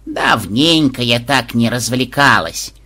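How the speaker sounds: slow, chirpy granny voice; a spry grandma enjoying herself; lightly voiced cheerful old woman; perky old lady. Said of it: "бодро кивнула старушка".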